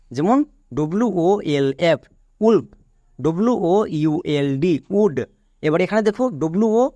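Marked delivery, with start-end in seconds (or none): 2.4-2.7 "উলফ" begun on a short oo. Shown as a demonstration. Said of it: "এর জন্য হ্রস্ব উ হচ্ছে". 5.0-5.2 "উড" with short oo and no l; silent L. Shown as a demonstration. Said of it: "এল এখানে silent".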